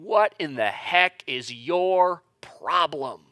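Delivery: slow, drawn-out mock outrage at God; retold scream. Person looking up to the heavens, mock screaming. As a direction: demand an answer, word by word, without really screaming.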